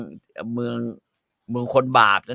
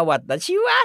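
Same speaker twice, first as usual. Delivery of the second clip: mock Japanese; 12 semitones higher than usual. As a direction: squeak it out like a cartoon Japanese character. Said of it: "คือมันญี่ปุ่นน่ะ".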